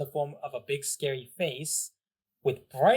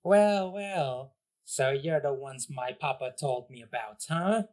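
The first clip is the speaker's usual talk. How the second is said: sinister little villain. Acted. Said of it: "a sinister smirk, and he goes".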